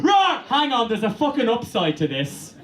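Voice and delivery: suddenly cheerful werewolf spotting the upside; eager realization. Pretend. Werewolf landing and realizing the perk, gleeful high voice.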